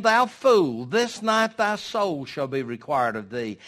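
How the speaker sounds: loud, slow, thundering rebuke; voice of God. Acted. God condemning the rich fool, booming and slow. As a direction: pronounce judgment from on high. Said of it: "God said to him".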